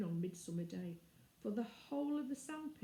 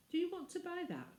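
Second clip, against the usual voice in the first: put-on surprised girl; 10 semitones higher than usual. Girl's surprised question.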